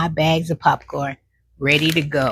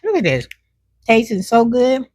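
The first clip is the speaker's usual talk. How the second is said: mouth full; 5 semitones higher than usual. Real, not acted. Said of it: "I can't even talk properly".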